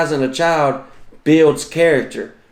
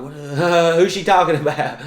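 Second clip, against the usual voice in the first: higher, awkward put-on chuckle through the words; feigned innocent laugh; 5 semitones higher than usual. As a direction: laugh it off, pretending not to know her. Embarrassed dad feigns ignorance to passersby.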